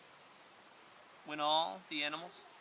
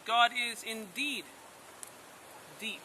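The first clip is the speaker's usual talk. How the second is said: put-on higher, slow, solemn old turtle voice; Old Turtle speaking; 7 semitones higher, slower than usual. A narrator's reading. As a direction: pronounce it slowly like a wise old turtle. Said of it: "It rumbled loudly like thunder".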